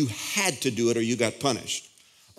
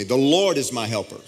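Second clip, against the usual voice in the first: congregational declaration. Shown as a demonstration. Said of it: "Everybody say this with me".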